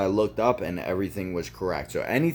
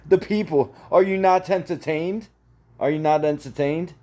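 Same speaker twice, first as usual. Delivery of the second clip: high, loud showman's taunt; mock-theatrical challenge; 8 semitones higher, 5 dB louder than usual. Rant about having to entertain the people, mock-theatrical challenge. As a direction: call it out to the crowd, pitched way up.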